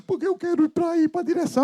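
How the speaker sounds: put-on high, pleading little kid voice; a kid begging to take the wheel; whiny small child. Child in the back seat begging the parent to drive, high whiny voice.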